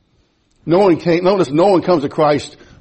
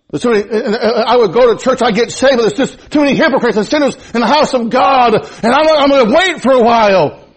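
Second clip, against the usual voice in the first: mocking excuse-maker; 8 semitones higher, 5 dB louder than usual. Voicing an excuse about hypocrites.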